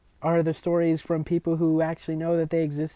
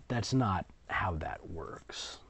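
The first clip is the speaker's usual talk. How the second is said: whispered aside; 6 semitones lower, 11 dB quieter, slower than usual. Real, not acted.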